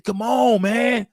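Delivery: mock panicked shout, urgent; hammed-up frantic call to get on the boat; mock panic shouting to a friend; panicked urging. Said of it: "No, like, like, panicking".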